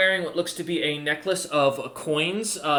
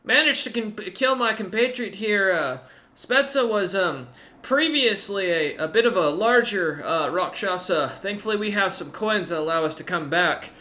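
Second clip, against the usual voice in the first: ogre's voice; 6 semitones higher than usual. Acted. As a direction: speak down from the wall, wary but polite. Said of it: "the ogre kinda looks back again and goes".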